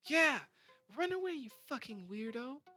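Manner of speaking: high, loud taunt after him; jeering yell. Acted. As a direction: shout him off. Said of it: "Sandy says".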